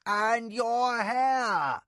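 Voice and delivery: high, loud, slow outraged cry; loud high scandalized nurse; ranting. A narrator's reading. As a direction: rant at your mistress's messy hair. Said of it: "Nakoya ranted on".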